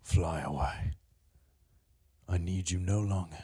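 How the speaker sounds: soft, low whisper to the falcon; whispered dismissal. Acted. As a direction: let the bird go in a hush.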